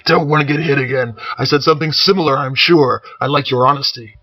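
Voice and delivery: cheery laughing bellow; laughing warrior. Acted. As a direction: talk through big-hearted laughter. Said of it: "He broke into laughter again".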